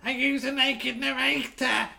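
mock sexy voice. Mocking the narrator voice.

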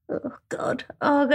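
whispered groan of dismay; mock dread. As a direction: whisper it, dreading another working day. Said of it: "every time I went to work, I was like".

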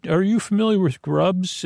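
a hint of an armadillo character, pitch lifted; lightly acted animal asking a question; lightly voiced armadillo. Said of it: "the armadillo may say".

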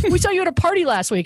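high-pitched quoted stranger; high, chirpy mimicry; imitated car passengers.

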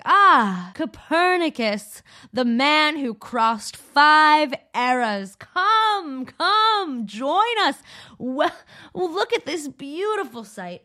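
high, loud, drawn-out theatrical greeting; hammed-up ceremonial hailing, beckoning; grand welcome. General Assembly greets Wang as Copernicus, grand excited welcome.

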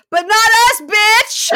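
high, very loud triumphant scream; retold triumphant yell. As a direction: yell it like a friend crowing over big news. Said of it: "He goes".

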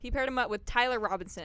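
put-on southern accent lingering in the recap; accidental southern accent. Telling co-host who was paired up, southern accent. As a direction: keep the southern accent drifting through. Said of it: "I'm just doing a southern accent by accident now".

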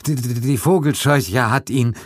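slow, stuttering in fear; stammering shock. Acted. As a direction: stumble over the words. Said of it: "antwortete Gildridge". (stotternd vor Angst)

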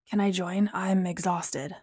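soft, low, slowing to tiredness; weary request. Acted. Apollo asking to share the cab, weary. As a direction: let the voice sink and drag, tired. Apollo asks, says he's exhausted.

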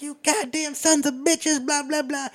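high, slow hammed-up cursing; retold gunman losing it, strained upward; mock breaking point. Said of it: "he hits his breaking point".

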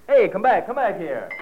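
haul him back across the room; calling out. Acted. Boss calling after him.

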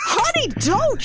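high pleading don't; pleading cry. Real, not acted. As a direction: beg her to stop. Yelling at Kate on screen.

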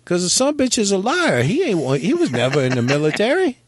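a hint of an exasperated seller delivering the punchline; grumpy dog owner. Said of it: "And the owner says".

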